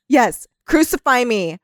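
ordinary talk, nothing marked

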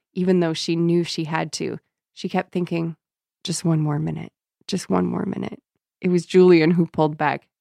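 measured read-aloud voice; story narration. A narrator's reading. Host reading the novel to co-host, story narration. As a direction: read the passage evenly, dialogue lightly acted.

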